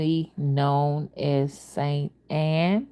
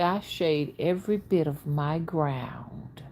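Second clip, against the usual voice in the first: slow whispered boast; mother's boast; 5 dB quieter than usual. Retold or imitated. Mother boasting of her power, slow and whispered. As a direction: breathe it out like a proud mother. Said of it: "she would always say".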